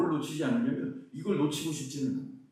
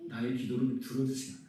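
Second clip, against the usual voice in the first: prayerful confession; 4 semitones lower than usual. Retold or imitated. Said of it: "뭐라고 기-, 고백했냐면".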